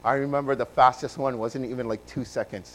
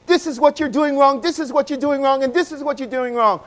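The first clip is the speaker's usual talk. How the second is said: mock stern father; 9 semitones higher, 3 dB louder than usual. Father's repeated criticism.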